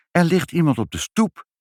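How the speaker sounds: put-on high-pitched little child reporting; child's voice. A narrator's reading. Child tells the parents someone is on the step, high and urgent. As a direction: pipe up with startling news. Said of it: "zei Ibbeltje".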